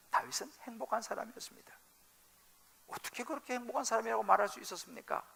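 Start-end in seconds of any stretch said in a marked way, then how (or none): 0.1-1.7 soft whisper. Acted. Repeats Paul's line softly.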